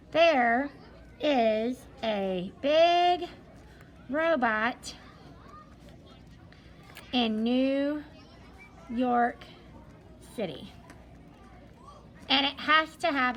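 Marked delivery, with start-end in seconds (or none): 0.1-10.7 slow dictation. Shown as a demonstration. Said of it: "if we write this sentence this way".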